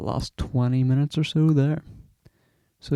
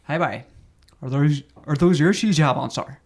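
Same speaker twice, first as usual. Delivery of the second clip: Colchi accent; 3 semitones higher, 5 dB louder than usual. Shown as a demonstration. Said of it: "I'll do it first".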